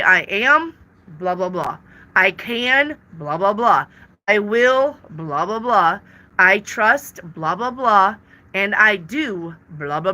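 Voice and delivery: firm openers, mumbled blah blah blah; affirmation template. Shown as a demonstration. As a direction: stress the opening words and throw away the rest. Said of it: "You always say".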